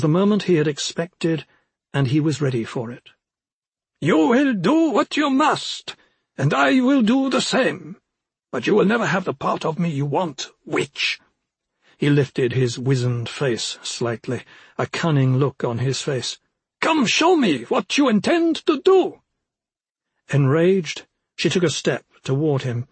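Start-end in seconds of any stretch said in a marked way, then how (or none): 4.0-11.2 high, proud little forest imp. Acted. Imp defies witch. 16.8-19.2 high, cunning little imp; taunting imp voice. Acted.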